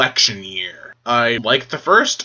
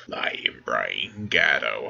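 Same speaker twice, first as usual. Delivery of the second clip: low breathy whisper of the name; 12 semitones lower, 8 dB quieter, slower than usual. Real, not acted. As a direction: whisper his name dramatically.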